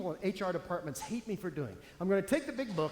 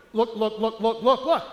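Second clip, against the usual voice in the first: excited shopper urging look; 2 semitones higher, 8 dB louder, slower than usual. Acted. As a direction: point and gush, excited. Acting the mouth personality excited.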